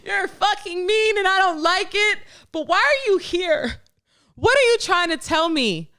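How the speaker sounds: amused, high laughing scolding. Real, not acted. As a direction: scold the voice through giggles. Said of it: "laughing at her inner voice".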